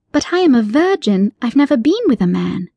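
put-on a polite girl demanding her cat back; firm yet polite young heroine; young Alice. Alice character voice.

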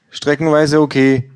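hoch und lauter, gleichgültig; gleichgültige Verkäuferin, hoch; lustlose Buchhändlerin. Acted. Bookseller voiced high. (Buchhändlerin urteilt gleichgültig mit hoher Stimme)

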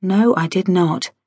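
slow, wary denial; slowly. Acted. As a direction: draw each word out, uneasy. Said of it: "I said slowly".

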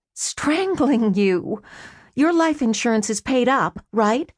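dry menace. Acted. Sister threatening brother.

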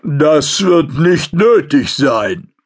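slow rumbling growl of a giant; extremely deep bass voice. A narrator's reading. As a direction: growl it slowly from deep in the chest. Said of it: "grollte die tiefe Stimme".

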